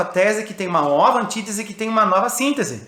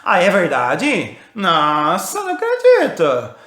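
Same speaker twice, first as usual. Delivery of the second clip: ironic disbelief; 3 dB louder, much slower than usual. Shown as a demonstration. Teacher mocking a student's certainty, ironic disbelief. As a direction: fake astonishment to needle someone's certainty. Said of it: "eu vou lá e ironizo ela".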